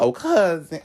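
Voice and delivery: high sing-song mock greeting; mocking fake cousin greeting. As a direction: mimic a fake sweet phone hello. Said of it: "'cause it just seemed fake".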